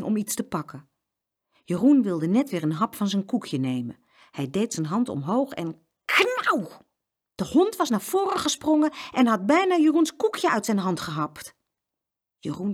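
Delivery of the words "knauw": dog's snap noise. A narrator's reading. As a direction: imitate a dog snapping. Story imitates the dog snapping.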